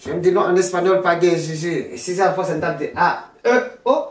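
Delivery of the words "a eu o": "A, E, O" with E said as "eu"; French-style E. Shown as a demonstration. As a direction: give the E in "A, E, O" a rounded French "eu" sound. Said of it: "Pas de E en espagnol". (« A, E, O » avec le E prononcé « eu »)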